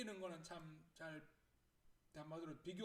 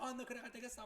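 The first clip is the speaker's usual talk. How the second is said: high-pitched mild scolding rant; mock angry yelling; 6 semitones higher than usual. Mother mid-rant before the phone rings, mock angry. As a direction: act out a mother losing her temper. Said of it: "화내려고 막 소리 지르고".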